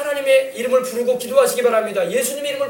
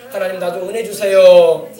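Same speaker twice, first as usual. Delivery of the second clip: slow, drawn-out plea to God; lower-pitched, stretched petition; sample prayer; 4 semitones lower, 5 dB louder, slower than usual. Shown as a demonstration. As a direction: plead slowly, demonstrating a prayer. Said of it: "기도할 때 들은 말씀 생각하면서".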